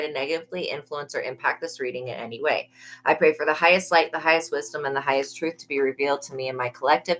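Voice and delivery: steady, even-toned prayer recitation; recited prayer. Real, not acted. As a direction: pray it as a familiar memorized invocation.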